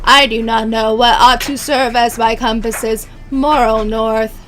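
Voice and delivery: robotic voice, throat rubbed. Acted. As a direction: stiff formal robot voice. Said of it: "make my voice sound more robotic".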